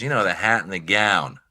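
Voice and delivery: lightly voiced club-owner impression; a hint of the guru boss explaining; Mitzi. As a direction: imitate her with a slight put-on voice. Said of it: "that's how she talks".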